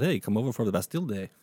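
quick, badly faked French accent; hammy attempt at a French accent; terrible French accent. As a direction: toss it off in a bad French accent. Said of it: "that was a terrible French accent".

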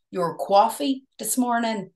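slow imitation of a New York accent; playful New York accent, slowly. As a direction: draw it out in mock New York. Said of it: "New York".

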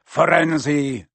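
loud, thundering centaur. A narrator's reading. Bane confronting Firenze in the clearing, thundering. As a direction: thunder the name in outrage. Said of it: "Bane thundered".

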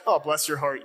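lightly patronizing, a hint of a sneer; mock sarcastic. Pastor mimicking how northerners say it, mildly sarcastic. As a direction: pretend sympathy, mild put-down. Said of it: "a sarcastic".

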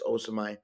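"Osimhen" ending on an open "my" sound; silent final N. Shown as a demonstration. Host explaining how the name is pronounced, "Osimhen" without its N. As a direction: say "Osimhen" as oh-suh-my, leaving off the N. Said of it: "you don't pronounce the N".

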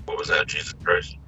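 faint, thin phone voice; like a broken phone line; tinny phone audio. Real, not acted. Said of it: "The audio thing got a little tinny".

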